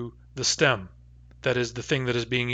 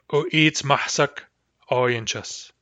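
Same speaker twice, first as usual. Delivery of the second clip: slow demo pronunciation; slower than usual. Shown as a demonstration.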